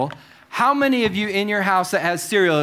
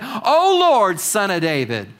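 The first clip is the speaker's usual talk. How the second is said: retold crying out; slower than usual. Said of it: "she cries out".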